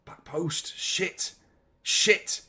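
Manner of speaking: breathless whispered worry; tense whisper. Real, not acted. Nervous fan watching a cross, tense whisper. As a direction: whisper it like you can't bear to look.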